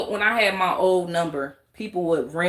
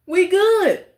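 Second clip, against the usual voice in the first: high, loud laughing "we good"; laughing squeal; 11 semitones higher, 7 dB louder than usual. Real, not acted. To would-be provokers, laughing high and loud. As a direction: laugh it out, amused.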